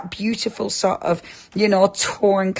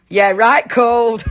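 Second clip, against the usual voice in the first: put-on light, drawn-out Northern English accent; British Northern accent; 3 semitones higher, 4 dB louder, slower than usual. Host reads out Peg's chilly message in a slow Northern accent. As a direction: read it slowly with a touch of Northern English. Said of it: "did you say that in a British Northern accent".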